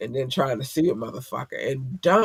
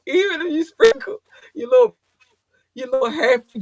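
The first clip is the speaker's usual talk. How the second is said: high, louder giggling words; laughing through words; 9 semitones higher, 5 dB louder than usual. Real, not acted. Vlogger fighting laughter mid-sentence, giggly speech. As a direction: try to talk through a giggle fit. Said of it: "that's what I'm saying? Stop".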